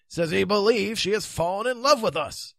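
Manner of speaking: hoarse, worn-out voice. Acted. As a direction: rasp it after a sleepless night. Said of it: "said Sir Grummore hoarsely".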